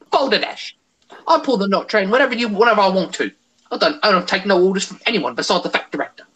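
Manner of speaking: put-on brisk young Scottish accent; cocky young Scots engine voice. Shown as a demonstration. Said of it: "the second voice I did is called, um, Young Scott".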